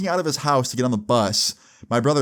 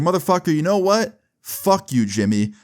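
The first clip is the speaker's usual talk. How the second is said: retold angry snap, pitched high; snapped outburst; 7 semitones higher than usual. Kid snaps at Jimmy after relentless bullying, angry outburst. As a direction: let rip at the bully, voice jumping up. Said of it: "that I snapped".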